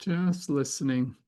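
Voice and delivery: unhurried meditation guide, long pauses between phrases; guided meditation. Acted. Facilitator guiding listeners to sense yes or no, calm guided meditation. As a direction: guide them inward, leaving space after each phrase.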